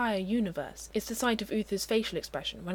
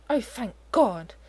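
slow, louder sigh of relief; relieved; 4 semitones higher, 6 dB louder, slower than usual. A narrator's reading. Merlin relieved he is not being courted, slow grateful relief. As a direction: let the relief pour out. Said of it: "Merlin says gratefully".

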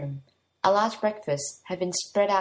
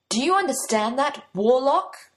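higher and louder, a sharp reprimand; indignant demand; 7 semitones higher, 6 dB louder than usual. Acted. Prince scolding his insolent new servant, raised indignant voice. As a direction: put the servant back in his place, loudly.

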